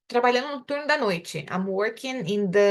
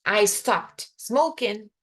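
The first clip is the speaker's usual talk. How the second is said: slow, careful teaching read; slow model sentence; much slower than usual. Shown as a demonstration. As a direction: lay it out slowly for students.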